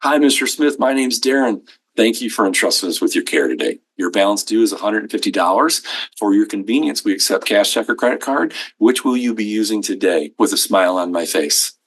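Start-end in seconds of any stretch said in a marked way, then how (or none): 0.0-10.3 smiling, welcoming receptionist; friendly front desk. Shown as a demonstration. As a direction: greet them warmly with a smile. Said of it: "What this should look like".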